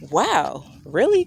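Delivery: brief breath of laughter, then an incredulous question; little disbelieving chuckle. Retold or imitated. Mother showing how she chuckled at the news, disbelieving. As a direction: re-enact a small chuckle, rising on really. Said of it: "a little chuckle".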